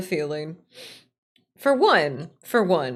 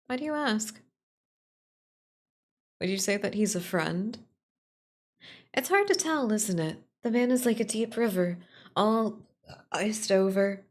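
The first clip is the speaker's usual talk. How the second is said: fond companion; 2 semitones higher than usual. Acted. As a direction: speak of Misha with affection, then musing. Voices Aphra about Misha.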